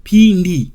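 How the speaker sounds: Pindi with the P stressed; correct Pindi. Shown as a demonstration. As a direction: say Pindi with the M silent.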